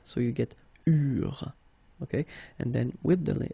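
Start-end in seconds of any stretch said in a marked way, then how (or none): 0.9-1.5 "eurent" as ur, ENT left silent; silent ENT ending. Shown as a demonstration. Teacher showing the plural ending, silent ENT. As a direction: say "eurent" as French u plus r. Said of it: "you don't pronounce it".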